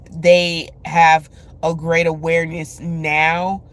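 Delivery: words stretched by a yawn. Real, not acted. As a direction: talk through a yawn. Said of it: "Anytime I yawn when I'm speaking".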